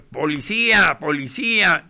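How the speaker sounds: dos gritos fuertes que caen; llama a la policía a todo pulmón; gritando policía. Retold or imitated. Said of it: "empecé a gritar". (grito fuerte pidiendo policía en la Alameda)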